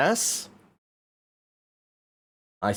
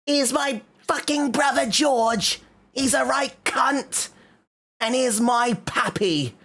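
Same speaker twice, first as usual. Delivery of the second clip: much higher, slow cartoon piglet voice; Peppa Pig; 12 semitones higher, slower than usual. Streamer introducing the piggy family as Peppa, high and slow. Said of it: "That, that's my impression of Peppa Pig".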